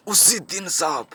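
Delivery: drawn-out, slow stress on उसी दिन; dramatic emphasis. Acted. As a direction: stretch उसी दिन out slowly for weight. Emphatic repeat in acted confession. (उसी दिन पर खींचकर, धीमा ज़ोर)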